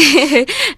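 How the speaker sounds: loud, high chuckle; amused laugh after a yes. Real, not acted. Teacher amused by the student's list of greeting variants, laughing.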